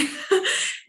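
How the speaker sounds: a hint of a whiny student; imitating a student. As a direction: playfully voice a confused student. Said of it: "eles falam".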